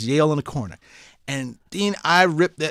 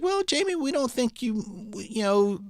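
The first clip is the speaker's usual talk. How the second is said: doubtful counselor; 4 semitones higher than usual. Retold or imitated. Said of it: "my counselors were like".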